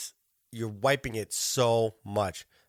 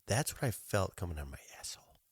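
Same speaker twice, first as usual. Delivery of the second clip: real hushed, breath-only whisper; 5 semitones lower, 9 dB quieter, faster than usual. Real, not acted. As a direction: whisper it quickly under your breath. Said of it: "I don't know why I whispered that".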